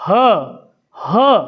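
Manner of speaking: "ह" pushed out from the throat in a sharp burst of air; breathy ha demo. Shown as a demonstration. Teacher showing students how air bursts from the throat on "ह". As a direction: open the throat and let "ह" burst out. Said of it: "झटके से क्या वायु हमारे कंठ को खोलती है".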